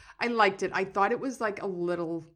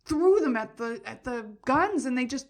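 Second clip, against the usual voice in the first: retold sobbing; 6 semitones higher, 7 dB louder, slower than usual. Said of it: "I'm like".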